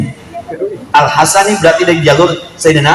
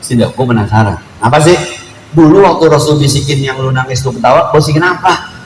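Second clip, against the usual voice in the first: Betawi style; 4 semitones lower than usual. Retold or imitated. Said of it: "Ini kalau bahasa Betawi".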